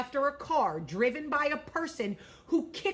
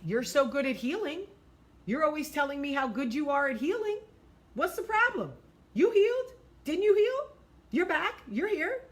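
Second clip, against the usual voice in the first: mock narcissist taunt; 4 semitones higher than usual. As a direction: sneer it back, rising to a high jab.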